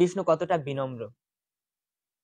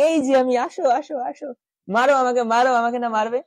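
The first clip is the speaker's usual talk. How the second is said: teasing taunt; 3 semitones higher than usual. Retold or imitated. Krishna taunting from the sky.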